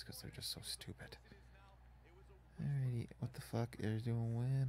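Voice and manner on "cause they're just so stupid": whisper. Real, not acted. Muttered frustration at the game.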